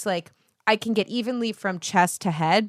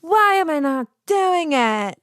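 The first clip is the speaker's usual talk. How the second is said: higher, slow, put-on whine; whiny frustration; 8 semitones higher, 4 dB louder, slower than usual. Dancer who keeps falling over, whining higher and slow. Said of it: "and you're like".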